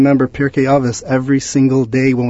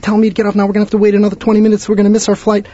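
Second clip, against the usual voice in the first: high, loud, fast berating; retold screaming; 10 semitones higher, 4 dB louder, faster than usual. Husband berating wife on the monorail, high angry yelling. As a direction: rip into her for missing the stop. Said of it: "he starts screaming at his wife".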